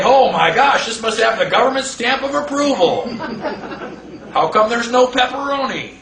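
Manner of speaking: mock awe with a laugh; laughing mockery. A customer marvelling at federal pizza, mocking with laughter. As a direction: laugh through a silly customer voice.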